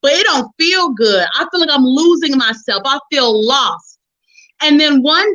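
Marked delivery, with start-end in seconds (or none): 0.0-4.0 complaining to God. Retold or imitated. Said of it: "but you got an attitude".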